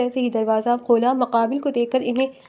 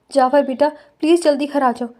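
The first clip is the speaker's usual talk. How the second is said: tearful plea. Acted. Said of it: "ارسلہ بیگم روتے ہوئے جعفر کو بولی".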